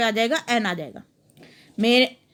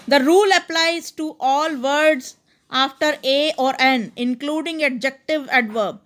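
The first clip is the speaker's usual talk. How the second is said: slow dictation; much slower than usual. Shown as a demonstration. Teacher dictating rule slowly.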